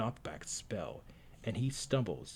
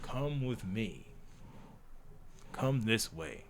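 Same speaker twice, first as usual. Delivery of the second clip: slow, drawn-out come with me; mock mysterious stranger; 3 dB quieter, slower than usual. Mimicking the stranger who grabs her, slowly. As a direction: lure them along slowly. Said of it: "I'm making it weird, sound weird".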